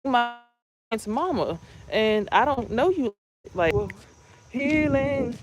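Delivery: high-pitched mock reply to the mom's offer; incredulous retort. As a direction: push her off, sceptical and guarded. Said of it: "And I'm looking at her like".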